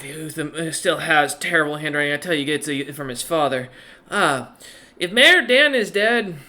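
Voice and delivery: lightly voiced old granny reading on.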